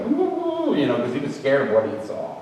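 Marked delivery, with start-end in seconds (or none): 0.0-0.7 dog whimper. Retold or imitated. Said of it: "He was like".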